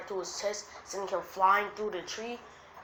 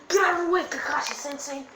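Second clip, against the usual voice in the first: high, loud urgent yell; shouted warning; 8 semitones higher, 7 dB louder, faster than usual. Acted. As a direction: shout a warning to your sensei. Acted urgent warning in battle.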